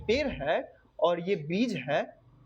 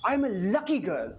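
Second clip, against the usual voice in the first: put-on slow, drawn-out I am a lucky girl; slow affirmation; much slower than usual. Shown as a demonstration. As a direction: stretch out lucky like a mantra. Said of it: "अगर आप कहते हैं कि".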